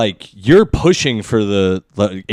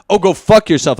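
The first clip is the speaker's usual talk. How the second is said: higher, louder imitated outburst; mock rude outburst; 8 semitones higher, 6 dB louder than usual. Rude reply to someone saying you're bumping into them, mock outburst. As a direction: act out an over-the-top brush-off.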